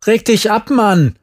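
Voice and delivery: high, loud startled retort; shouting back. A narrator's reading. Overwhelmed friend answers screaming Jerry, shouting back. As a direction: yell back, caught off guard. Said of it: "schrie ich zurück".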